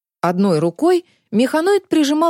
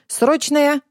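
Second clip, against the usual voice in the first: metallic robot voice; 6 semitones higher than usual. Acted. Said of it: "донёсся металлический голос".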